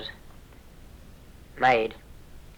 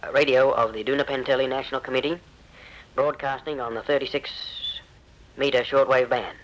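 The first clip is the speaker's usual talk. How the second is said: raised, urgent announcer reading; urgent radio appeal; 3 semitones higher than usual. Retold or imitated. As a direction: read it like a desperate broadcast. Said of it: "The broadcast says".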